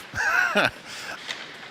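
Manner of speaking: short laugh after speaking. Real, not acted. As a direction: let out a brief chuckle. Laughs after naming pet peeve.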